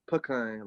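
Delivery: "pecan" as PUH-KAHN; both parts stressed. Retold or imitated. Showing how country people say it, "puh-kahn" with two stresses. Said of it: "put emphasis on both parts of the word".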